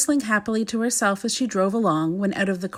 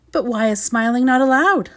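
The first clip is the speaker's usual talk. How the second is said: light laugh; 4 semitones higher, 4 dB louder than usual. Acted. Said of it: "laughed Little Miss Sunshine".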